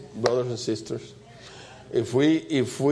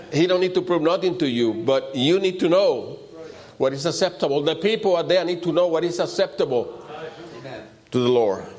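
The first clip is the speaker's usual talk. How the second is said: higher-pitched, insistent sermon delivery; emphatic preaching; 4 semitones higher than usual. Real, not acted. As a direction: press the point on the congregation. Preacher driving the point home.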